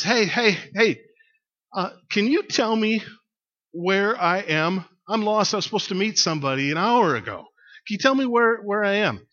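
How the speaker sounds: lost man hailing a passer-by; calling out. Acted. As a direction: call down for help from a balloon. Lost balloonist calls down for help.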